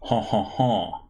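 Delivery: put-on a light Quebecy French accent with a chuckle; lightly voiced Québécois captain greeting the team. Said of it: "in a Quebecy French accent coloring her speech".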